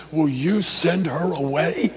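slow, drawn-out plea; pleading with mild exasperation; exasperated pleading. Retold or imitated. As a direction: imitate fed-up disciples begging. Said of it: "they pleaded with him and said".

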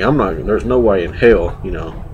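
talking around a cigar; cigar in mouth. Real, not acted. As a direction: lips closed on cigar. Seen 0: cigar held between lips while speaking throughout labelled words.

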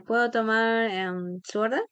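slightly unsure waiter; a bit hesitant. Shown as a demonstration. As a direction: pause on "em" mid-question. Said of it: "como que un poco dudando".

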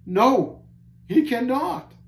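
loud, high, anguished refusal; despairing denial. A narrator's reading. Caged man contradicts Christian, loudly despairing. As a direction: cry it out against all comfort.

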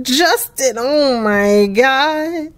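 long drawn-out exasperated groan of words; dismayed. Real, not acted. Player despairing at Justin, slow dismayed drawl. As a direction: stretch it out in dismay. Dismayed at her character's failure.

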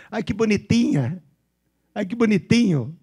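playful imitation of Bauru speech; Bauru regional accent. Shown as a demonstration. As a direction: coo it like a Bauru local. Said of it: "É o sotaque do pessoal".

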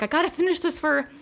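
high-pitched, borderline hysterical Hermione impression; imitated high voice. Retelling Hermione's panic at the party, in a high voice. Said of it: "she's talking in a really high voice".

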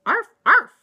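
high, loud dog yaps; barking. Acted. Kitten sister mocking the chihuahua, barking. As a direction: bark it like an excited little dog. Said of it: "barked Juju Bee".

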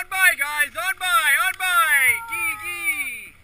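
dog sled musher. Real, not acted. Musher calling sled dogs.

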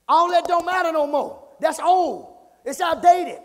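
loud, high mock protest; preacher mimicking dismissive people at full volume; imitated naysayers. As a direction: voice the doubters' dismissal, loudly and high. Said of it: "This is what people are saying".

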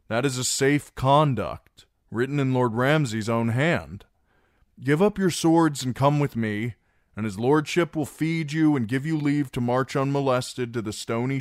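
high, loud and commanding; loud threatening ultimatum. Acted. Reek pressing the garrison to surrender, loud and high. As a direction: push them to yield.

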